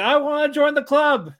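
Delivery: high, loud, all-out shouted outburst. Recapping a show scene where a sad girl calls out to her friends, retelling a shout. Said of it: "she's shouting like".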